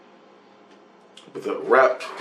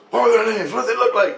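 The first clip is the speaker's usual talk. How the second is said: lightly voiced Christ; 11 semitones higher, faster than usual. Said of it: "Christ goes".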